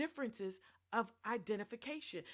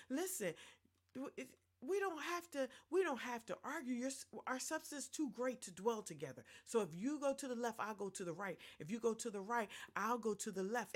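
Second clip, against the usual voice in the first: sweetly. Acted. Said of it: "Abram said it so sweetly".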